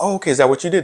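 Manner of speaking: high, mocking disbelief; sarcastic fake interest in their results; mock surprised question. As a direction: raise the pitch way up and feign being impressed. Mocking a keto fan.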